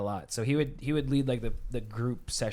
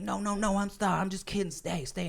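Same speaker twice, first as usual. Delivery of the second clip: higher, softer mock plea; retold pleading; 6 semitones higher, 4 dB quieter than usual. Host begging departing guest to stay, mock pleading. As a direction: backpedal lightly, trailing softer.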